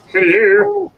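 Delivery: very high sing-song hello to the dog; squeaky dog greeting. Real, not acted. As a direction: pitch way up like greeting a puppy.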